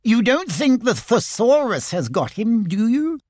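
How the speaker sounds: high, small, worried voice; nervous little pig; anxious Piglet. Acted. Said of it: "Piglet looked anxious".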